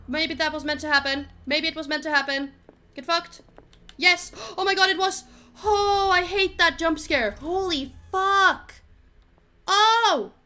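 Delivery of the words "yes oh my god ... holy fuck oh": high, loud, shocked cries; excited shouting. Real, not acted. Jump scare reaction.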